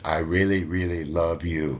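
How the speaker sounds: lightly imitated gushing confession; gushing student. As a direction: lean into the really like a smitten student. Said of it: "the exact same way she said".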